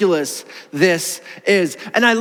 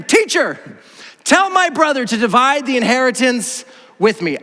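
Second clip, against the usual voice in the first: emphatic, measured reading of a plea; scripture read aloud; 3 semitones higher than usual. Acted. Preacher reads a crowd member's demand from scripture, emphatic reading. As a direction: read the quoted plea out to the room.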